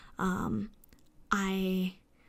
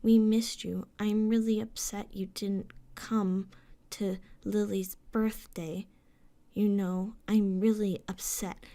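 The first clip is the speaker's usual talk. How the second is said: monotone. Retold or imitated. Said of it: "my sister would fucking monotone".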